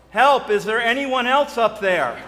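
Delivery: panicked shout for help; man on the cliff shouts past God for someone else; yelled. Retold or imitated. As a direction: yell it out, desperate and high. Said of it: "Then John yelled".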